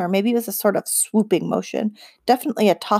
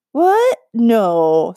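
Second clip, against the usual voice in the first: shocked denial; 2 semitones higher, 5 dB louder than usual. Acted. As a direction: jolt out a startled no. Tin shocked at the idea.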